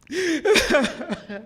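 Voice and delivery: high, broken real sobbing; heaving sobs. Real, not acted. Preacher overcome by Hussein being abandoned, heaving sobs. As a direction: sob helplessly, no words.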